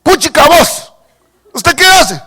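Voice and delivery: lightly voiced Guatemalan greeting; Guatemalan slang. Believer greeting a Guatemalan, lightly Guatemalan. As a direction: toss it off like a Guatemalan friend. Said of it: "usted que dice".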